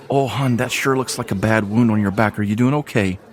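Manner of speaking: lightly voiced motherly tavern woman, soothing; calming the wounded girl, a hint of motherly voice; comforting innkeeper.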